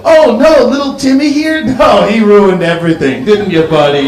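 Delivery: fake-cheery parent turning bitter; mock honest parent. A parent mocking his own toddler, sarcastic. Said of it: "You could never go".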